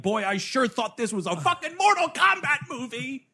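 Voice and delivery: high-pitched incredulous viewer; mock exasperation. Quoting his own reaction to the movie, comically exasperated. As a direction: complain in a high, put-on voice.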